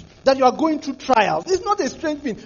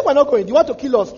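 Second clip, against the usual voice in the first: loud refusal, pitched up; defiant people shouting; 5 dB louder than usual. Retold or imitated. Israelites refusing to go.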